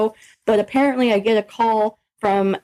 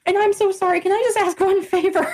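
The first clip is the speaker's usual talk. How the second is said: retold tearful apology; 8 semitones higher than usual. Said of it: "I'm just tearing up".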